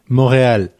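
Montréal with a silent T, mor-ee-al; French Montréal. Shown as a demonstration. Host tries the French Montréal for the friend. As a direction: drop the T in Montréal. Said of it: "The T is silent".

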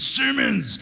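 an excited coach calling Simmons; coach's excited greeting. Retold or imitated. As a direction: greet the player with real delight, loud. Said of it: "and goes".

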